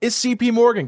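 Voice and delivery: building winner reveal, rising pitch; hyped giveaway announcement. Real, not acted. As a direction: announce the winner like a game-show host.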